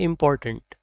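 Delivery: इम्पोर्टेंट run together quickly; quick correct pronunciation. Shown as a demonstration. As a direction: say इम्पोर्टेंट fast with a light last syllable. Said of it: "जल्दी से अगर हम इसको बोलेंगे".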